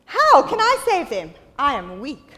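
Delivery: a light hint of an unsure Gideon; timid Gideon. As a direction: let it sound small and doubtful. Gideon voiced in story.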